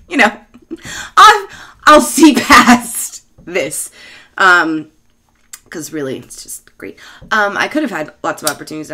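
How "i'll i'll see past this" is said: mock suitor. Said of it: "guys would be like".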